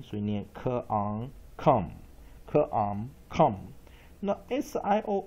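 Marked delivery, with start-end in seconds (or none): 0.0-3.6 "科昂" blended into "come" with a weak vowel; teacher sound blending; syllable blending. Shown as a demonstration. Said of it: "U标弱母音".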